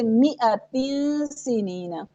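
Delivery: recited "मिअतिन" as mi-atin, no long a; silent-alif recitation. Shown as a demonstration. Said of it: "ये सारे अलिफ जो हैं ... नहीं पढ़े जाएंगे".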